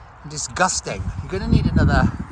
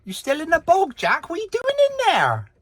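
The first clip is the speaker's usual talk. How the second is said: high teasing call through the door; yelling across the room. Real, not acted. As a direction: call out to someone in another room. Calling to Jackie in toilet.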